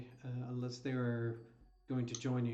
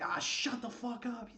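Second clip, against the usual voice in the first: higher-pitched dismissive snap at the merchants; gruff sergeant; 11 semitones higher than usual. Acted. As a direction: brush them off with contempt. GM voices Cadron snapping.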